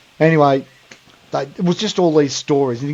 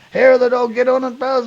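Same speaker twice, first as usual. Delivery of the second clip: high, egging-on lad voice; voiced like a rowdy mate; higher Aussie bloke; 9 semitones higher than usual. Mates egging him on.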